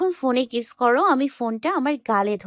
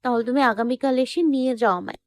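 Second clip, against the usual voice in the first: high girlfriend voice with acted sobs; pleading, a touch tearful; mildly sobbing; 10 semitones higher than usual. A narrator's reading. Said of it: "ফুপিয়ে ফুপিয়ে বলল". (ফুঁপিয়ে বলার অভিনয়)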